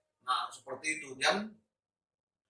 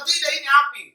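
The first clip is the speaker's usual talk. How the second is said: high, loud protest; re-enacted argument at raised volume; retold shouted insistence; 8 semitones higher, 6 dB louder than usual. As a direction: shout back, insisting on the danger. Panicked self arguing back, retold.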